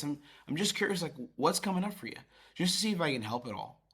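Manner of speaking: soft, sincere and curious; empathetic tone. Shown as a demonstration. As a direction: speak as someone here only to help. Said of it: "do you hear the genuine empathetic tone".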